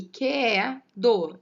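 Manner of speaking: "que é" slowly glided into one, then a loud "do"; joined vowels. Shown as a demonstration. Teacher showing there is no separation, joined vowels. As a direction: stretch "que é do" with que and é linked. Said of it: "eu não tenho essa separação".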